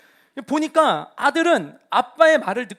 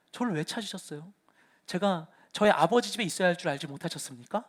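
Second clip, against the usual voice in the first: much softer, calm reply; calm boy Jesus; 3 semitones lower, 5 dB quieter than usual. Retold or imitated. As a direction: answer simply and innocently. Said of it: "예수님이 대답하십니다". (부모에게 답하는 소년 예수, 차분하고 조용하게)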